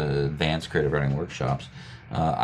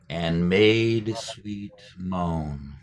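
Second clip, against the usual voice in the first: very slow, stretched "And made sweet moan"; slow the line right down; slower still; much slower than usual. Shown as a demonstration. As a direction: draw out "And made sweet moan" even more. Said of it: "Now say it a little bit slower".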